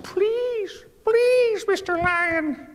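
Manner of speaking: very high squeaky please; begging mouse. Acted. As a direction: plead in a tiny mouse voice.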